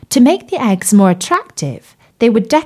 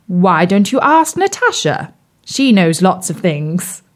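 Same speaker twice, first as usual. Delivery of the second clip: frog prince voice. Acted. Bertie the frog's voice.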